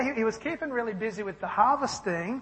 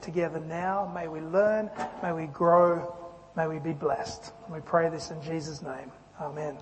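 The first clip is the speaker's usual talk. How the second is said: prayer; 2 semitones lower than usual. Acted. Opening prayer.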